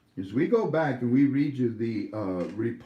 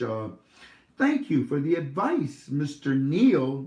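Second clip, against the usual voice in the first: deliberate read-aloud with raised emphatic peaks; report read aloud; 2 semitones higher, slower than usual. A narrator's reading. Host reading a contact's thank-you report to listeners, read-aloud style. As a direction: read the message out, drawing out key words.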